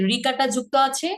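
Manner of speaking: usual speaking voice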